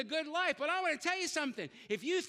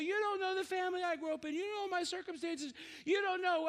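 whiny excuse; 4 semitones higher than usual. Retold or imitated. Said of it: "Some of you say".

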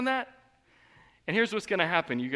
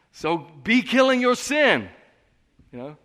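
forceful preaching; 8 semitones higher, 10 dB louder than usual. Real, not acted. Preacher urging the church to fight sin, loud. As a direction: thunder the command to the congregation.

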